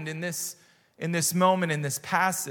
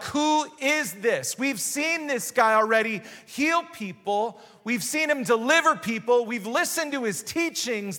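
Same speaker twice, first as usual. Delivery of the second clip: higher-pitched, incredulous wonder; amazed disciples; 5 semitones higher than usual. Acted. Disciples react to Jesus calming the sea, amazed. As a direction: marvel aloud, pitch raised.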